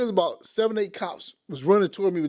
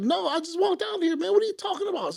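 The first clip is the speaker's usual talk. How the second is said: retold protest; 11 semitones higher than usual. Protests to police questioning him.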